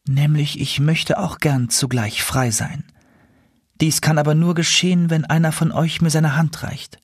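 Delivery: lightly voiced princess making terms; owl princess bargaining. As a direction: state your terms carefully. Owl princess states condition.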